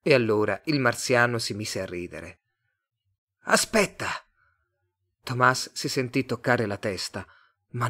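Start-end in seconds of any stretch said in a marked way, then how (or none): 3.4-4.1 high-pitched alien voice; raised, otherworldly command; Martian. A narrator's reading. Martian character tells Tomás to wait.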